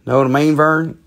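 lightly imitated Southern ad pitchman; a hint of folksy ad character; commercial catchphrase. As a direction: toss out the catchphrase like the old commercial. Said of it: "remember that commercial?".

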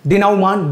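डेनाउमांट with "nau" and a sounded final t; mistaken pronunciation. Shown as a demonstration. Teacher gives students another misreading, डेनाउमांट with "nau" and final t. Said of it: "नहीं पढ़ेंगे".

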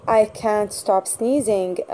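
slow read-aloud. Shown as a demonstration. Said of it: "فننزل كلمة sneezing في الفراغ".

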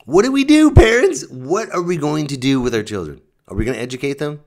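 high, loud, hammed-up panic; mock panicked shout. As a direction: cry out to all parents in fake alarm. Mock panic appeal to parents.

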